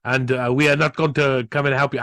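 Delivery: a light put-on Japanese accent; barely-there Japanese accent. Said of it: "I'm doing my Japanese accent for Chinese".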